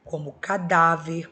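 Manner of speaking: cadáver slowly, leaning on dá; stressed example word. Shown as a demonstration. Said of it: "terminada em R".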